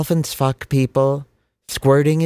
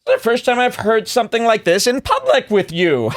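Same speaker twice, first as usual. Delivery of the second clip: laughing aside; 9 semitones higher than usual. Retold or imitated. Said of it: "looking over at the guy next to you and going".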